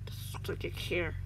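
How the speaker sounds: cold, measured menace. A narrator's reading. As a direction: say it coldly, without hurry. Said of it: "the man said coldly".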